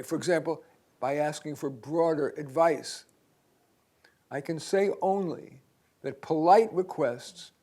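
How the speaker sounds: measured read-aloud with long pauses; unhurried article reading, pausing between phrases; slow deliberate reading. Real, not acted. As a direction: read slowly, giving listeners time to process. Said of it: "I'm gonna read this slowly".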